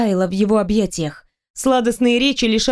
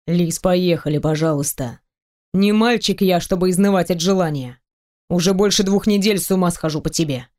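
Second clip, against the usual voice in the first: a hint of a lower, teasing male voice; lightly voiced man; 3 semitones lower than usual. Teasing the heroine about undressing, lightly lowered male voice. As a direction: tease her, playful and sure.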